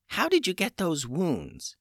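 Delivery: put-on high, calm old witch; a witch healer in charge. A narrator's reading. Old witch Tubes speaks.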